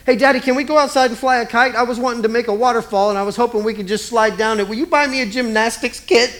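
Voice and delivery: put-on eager childlike pleading voice; child asking daddy. Child pestering daddy for treats, eager pleading. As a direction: wheedle like a kid begging a parent. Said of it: "As if God were a child".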